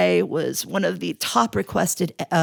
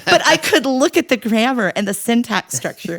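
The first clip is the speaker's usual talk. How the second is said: high laughing talk; 8 semitones higher, 4 dB louder than usual. Real, not acted. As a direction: laugh while telling it. Laughter heard.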